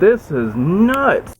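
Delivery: excited. Real, not acted. Amazed at the snow.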